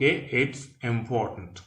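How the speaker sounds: It's important spoken slowly, its stressed; slow model. Shown as a demonstration. Teacher slowly modelling It's important to class. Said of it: "C'est important".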